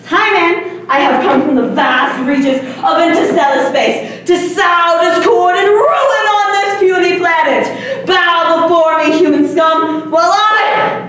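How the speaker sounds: hammy gloating villain proclamation; dark lord. Pretend. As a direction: boom it out like a cosmic tyrant. Kid playing alien overlord.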